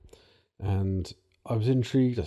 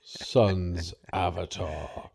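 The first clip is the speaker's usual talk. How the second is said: dinosaur voice; 2 semitones lower, 4 dB quieter, much slower than usual. Pretend. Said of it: "My dinosaur impression".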